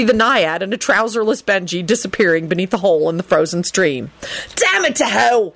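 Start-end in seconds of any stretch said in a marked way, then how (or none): 4.6-5.5 shouting. Acted. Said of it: "Sirius shouted".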